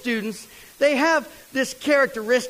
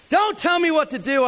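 put-on higher, louder, snapping back like a cocky kid; know-it-all kid snapping; 10 semitones higher, 4 dB louder than usual. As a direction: brush off the warning, sure you know best. Cocky roadie snaps back.

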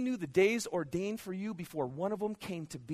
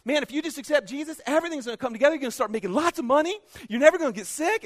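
mock prosperity preacher; 8 semitones higher, 7 dB louder, faster than usual. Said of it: "the health and wealth gospels".

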